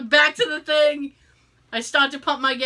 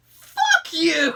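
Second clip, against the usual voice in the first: loud, higher angry yell; retold angry shout; 6 semitones higher, 6 dB louder than usual. Yelling at the gas station clerk who walked away, angry shout. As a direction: snap it back at the clerk like you're furious. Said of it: "Oh, I was so mad".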